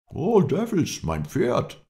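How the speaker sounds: loud, high shout of alarm; high-pitched, startled yell; Lindsay's outraged cry. A narrator's reading. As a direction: cry out at the top of the voice. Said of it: "rief Lindsay".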